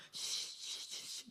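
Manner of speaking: soft voiceless "shh" repeated; imitated shushing. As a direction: mimic someone hushing an overexcited kid. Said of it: "제가 제일 많이 들었던 말이".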